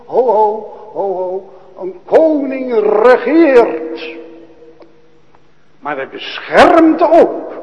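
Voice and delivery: loud, high, ringing pulpit cry; preaching at full force. Acted. Preacher proclaiming Christ's protection to the church, loud and high. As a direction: thunder out the king and his angel army.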